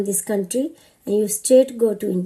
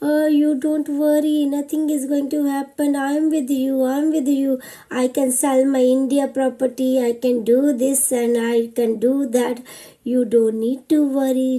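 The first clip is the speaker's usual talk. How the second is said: husband comforting; 3 semitones higher than usual. Retold or imitated. Husband voiced, reassuring her.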